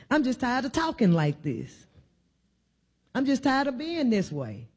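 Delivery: imitating a worn-out believer, starting low then lifting; a touch of tired despair, pleading at the end; weary confession. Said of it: "when we say".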